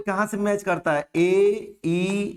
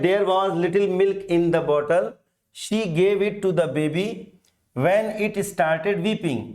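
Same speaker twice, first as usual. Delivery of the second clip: There was little milk read very slowly; slow dictation; much slower than usual. Shown as a demonstration. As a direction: dictate each phrase slowly to the class. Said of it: "पहला question है".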